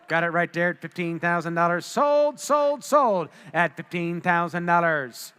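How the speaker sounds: rapid auctioneer bid calling. Real, not acted. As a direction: call the bids like an auctioneer.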